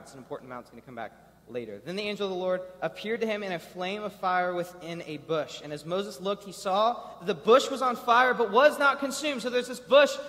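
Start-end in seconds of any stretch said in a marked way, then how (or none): 1.8-9.4 steady reading voice; scripture reading. Acted. 9.4-10.2 building wonder; awed. Real, not acted. Marvelling at burning bush.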